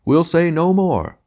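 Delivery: high, loud, slow stage wail; milk it like a seedy tragedian; grand tragic wailing. Acted. Tragedian repeats, more theatrically.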